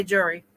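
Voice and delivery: two-syllable "jury" for jewelry; jewelry collapsed into "jury". Shown as a demonstration. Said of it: "because I say jury".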